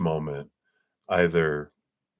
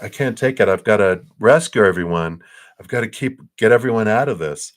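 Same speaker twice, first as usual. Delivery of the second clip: retold urgent plea, louder and higher; urgent overwhelm; 3 semitones higher, 6 dB louder than usual. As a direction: act out feeling frantic to rescue everyone. Recalling urge to rescue everyone.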